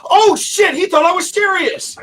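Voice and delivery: high, startled mock panic. Retelling her panic to the hosts, high startled alarm. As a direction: squeak it out in alarm. Panicked realisation in retold story.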